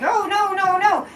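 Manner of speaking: high, mocking groan of no; mock dismay. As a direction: ham up the group's dismay. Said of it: "we were all like".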